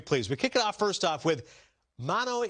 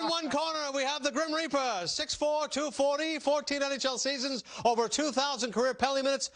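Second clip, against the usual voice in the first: put-on old school ring announcer voice; 4 semitones higher than usual. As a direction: call the fighters into the ring. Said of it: "old school ring announcer voice".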